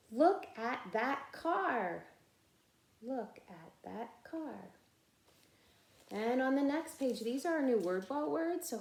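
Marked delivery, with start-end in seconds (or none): 0.1-2.0 higher, slow and clear: look at that car; model reading. Shown as a demonstration. Teacher modeling the sentence for the class to echo. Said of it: "you can be my echo". 3.0-4.7 much softer repeat of Look at that car; echo reading. Shown as a demonstration. Teacher voicing the class's echo of the sentence. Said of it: "you can be my echo".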